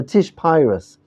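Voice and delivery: Polish Hasidic Hebrew, "Pyrus" with an eye vowel; Polish Hasidic accent. Retold or imitated. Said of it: "So the Hasidim call this".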